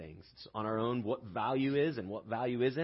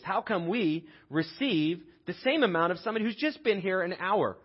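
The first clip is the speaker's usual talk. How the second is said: raised, indignant protest of hard-done-by workers; aggrieved workers' complaint, pitched up; grumbling complaint; 4 semitones higher, 4 dB louder than usual. Acted. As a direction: grumble at the boss about unequal pay. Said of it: "they grumbled at the master".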